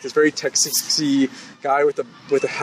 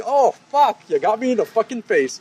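pretend pained outburst; 7 semitones higher than usual. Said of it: "She just couldn't be like".

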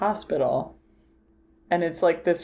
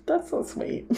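gushing friend; 8 semitones higher than usual. Retold or imitated. Retelling friend's gushing reaction.

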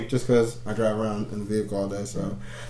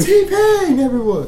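podcast shout-out; 7 dB louder, slower than usual. Retold or imitated. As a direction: hype announcer yell, pitched high. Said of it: "Because on the podcast, like".

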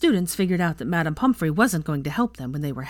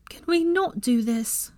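pleading; 7 semitones higher, slower than usual. A narrator's reading. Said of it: "she asked Ginny pleadingly".

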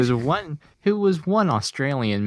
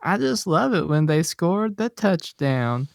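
imitating Missus Fram; 5 semitones higher than usual. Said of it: "she goes".

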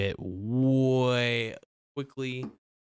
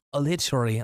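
mock guru catchphrase; 4 semitones higher, 3 dB louder than usual. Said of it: "I just gotta say literally all the time".

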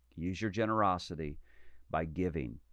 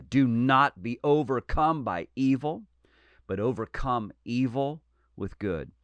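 louder preaching; 4 semitones higher, 6 dB louder than usual. Real, not acted. Repeats verse, preaching louder.

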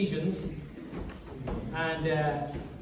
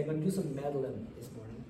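put-on Southern accent; 7 semitones lower, 10 dB quieter, faster than usual. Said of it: "as they say in the South".

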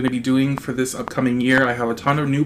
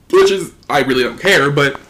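talking through hiccups; words broken by hiccups. Real, not acted. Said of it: "sorry, I have the hiccups".

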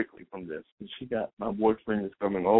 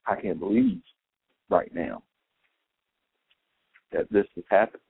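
disbelief. Retold or imitated. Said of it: "a tone of".

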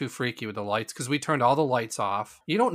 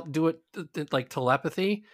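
ordinary talk, nothing marked

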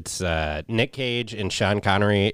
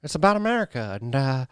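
mock politician; 3 semitones higher than usual. Repeats mock voice.

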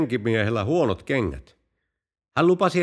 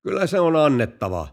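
louder call, a bit higher; shouting back; 4 semitones higher, 4 dB louder than usual. Acted. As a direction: holler the answer back across the field. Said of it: "rovasti huusi takaisin". (rovasti huutaa takaisin rengille, kovempaa)

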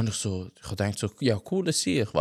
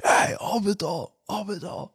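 slow, raised mock bouncer call, higher pitch; security guard yelling; 6 semitones higher than usual. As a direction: play the bouncer shooing them down. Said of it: "nachher kommt einfach so Security". (gespielter Türsteher, der sie runterscheucht)

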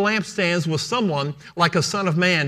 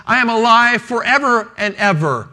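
higher and louder, proclaiming; emphatic preaching; 6 semitones higher, 6 dB louder than usual. Shown as a demonstration. Preacher repeating the verse to stir the congregation, loud. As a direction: ring out "alive" to the back row.

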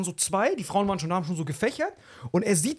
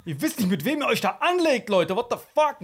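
mock outrage; 6 semitones higher than usual. Retelling his outburst over bad seats.

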